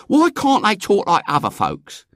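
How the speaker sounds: put-on high, loud, indignant girl; scornful. A narrator's reading. Eglantine mocking how the man talks, scornful. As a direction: complain contemptuously in a high voice. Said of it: "commented Eglantine scornfully".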